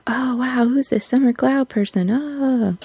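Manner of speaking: high, airy mock fan gush; breathless fake wonder at a discovery. Mocking fans discovering an actor.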